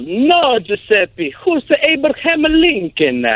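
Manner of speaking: Tony's voice. Retold or imitated. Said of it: "Tony goes".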